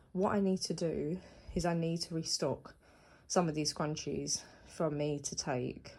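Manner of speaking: breathless, puffing between words; talking while short of breath. Real, not acted. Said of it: "I don't know why I'm out of breath".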